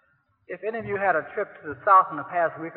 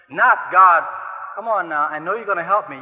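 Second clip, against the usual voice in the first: loud hopeful plea; 6 dB louder than usual. Pretend. Contrasts wrong prayer, loud.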